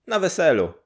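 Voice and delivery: put-on a matter-of-fact old neighbour.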